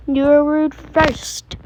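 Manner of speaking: slow, pointed comeback; snippy retort. Real, not acted. Sister snapping back at her sibling. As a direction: drag it out to make a point.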